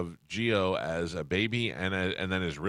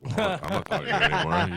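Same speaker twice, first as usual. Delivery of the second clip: fast, higher-pitched mock huff; mock offended; 8 semitones higher, much faster than usual. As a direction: rush it out like a wounded ego. Mock hurt reply to fan, laughing.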